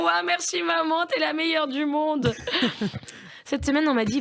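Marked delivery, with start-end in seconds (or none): 0.0-2.3 higher, slow gushing thanks; mock delighted child. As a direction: gush like an over-thrilled kid. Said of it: "Elles font". (fillette ravie imitée, voix aiguë et lente)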